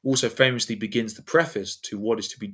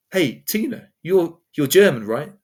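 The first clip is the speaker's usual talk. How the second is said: eager slow question; 5 semitones higher, 6 dB louder, slower than usual. Retold or imitated. Asking Tina about her accent.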